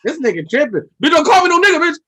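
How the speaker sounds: loud, high, outraged sister voice; mock sisters at the dock. Sisters at the dock refusing the white-girl party, loud outraged voice. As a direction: ham up a disgusted woman refusing the boat. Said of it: "saw the white girls like".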